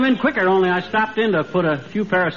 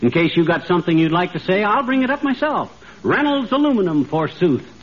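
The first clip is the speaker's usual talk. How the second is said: hammy stage actor. Acted. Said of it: "the way Sir Walter Raleigh talks".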